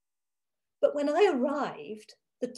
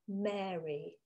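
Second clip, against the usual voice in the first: soft interruption; 3 semitones lower, 6 dB quieter than usual. Acted. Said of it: "cutting in on my babbling".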